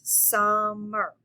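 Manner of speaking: "Summer" in two drawn-out beats, sum-mer; split into syllables. Shown as a demonstration. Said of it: "you should clap two times".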